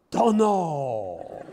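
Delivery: imitating the Zen master. Zen master answering his own question, puzzled. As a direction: answer as if truly baffled. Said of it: "and he'd say".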